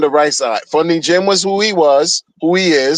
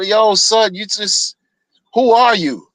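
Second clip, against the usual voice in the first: mock street voice; 4 semitones higher, slower than usual. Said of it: "You could hear it in the voice".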